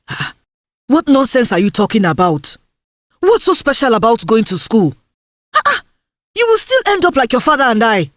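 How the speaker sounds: mild dismissive scoff; a hint of a mother waving it off; scornful mother. Mother mocks the plan.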